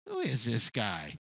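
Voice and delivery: put-on a young boy's calm question; calm, unimpressed question. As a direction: ask it coolly, unafraid of the giant. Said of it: "looks at you and says".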